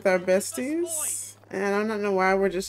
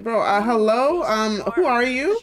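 indignant, higher-pitched confrontation; rude introduction; 4 semitones higher, 3 dB louder than usual. Acted. Player confronts the guy screaming at a cousin, rude and indignant. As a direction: challenge him with mounting disbelief. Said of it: "give him a rude introduction".

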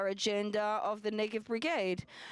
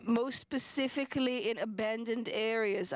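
abandoned pressed a little harder than the words round it; stress on abandoned. Real, not acted. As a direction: lean on the word abandoned. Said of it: "I emphasize the word abandoned".

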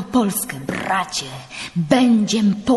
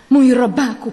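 overjoyed cry; 6 semitones higher, 8 dB louder than usual. Acted. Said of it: "powtarzał".

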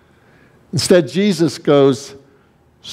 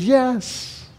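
much higher, drawn-out "yes"; imagined eager answer; 11 semitones higher, 6 dB quieter than usual. Retold or imitated. Preacher voicing the listeners' answer to Jesus' question, confident mock reply. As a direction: answer high and sure, as the imagined crowd. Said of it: "And they would have answered".

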